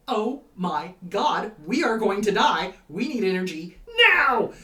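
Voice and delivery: loud frantic alarm, building to a yell; panicked shout. Acted. Brain part shouting in panic that we will die.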